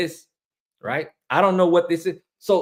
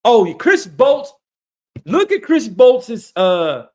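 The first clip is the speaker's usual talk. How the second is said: excited; 6 semitones higher, 9 dB louder, much slower than usual. Real, not acted. Excited at seeing Chris Bolts.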